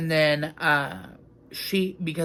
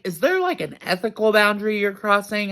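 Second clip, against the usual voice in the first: incredulous; 5 semitones higher, 3 dB louder than usual. Retold or imitated. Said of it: "so I'm like".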